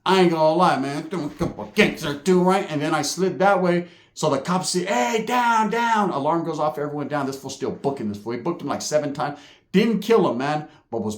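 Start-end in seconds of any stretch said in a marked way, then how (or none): 4.8-6.1 high, barked order to get down; a raised-pitch down, down; mock guard shout. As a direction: yell like a guard.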